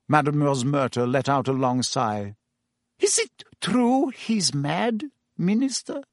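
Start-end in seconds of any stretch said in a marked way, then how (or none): 3.0-6.0 worried barmaid. Acted. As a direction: ask the minister nervously. Barmaid asks the minister.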